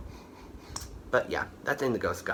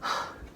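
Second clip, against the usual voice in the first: tired sigh; 6 dB quieter than usual. Real, not acted. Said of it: "I am getting out of breath".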